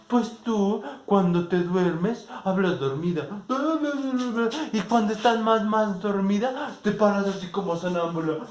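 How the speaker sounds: loud mocking insult. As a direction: drag out the tease to sting. Final insult in quarrel. (burla lenta, aguda y fuerte)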